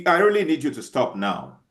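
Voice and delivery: firm and forceful, getting upset; a forceful tone, telling them to stop; stern warning, firm and pressing. Shown as a demonstration. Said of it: "I'm showing you by my tone of voice that I'm getting angry".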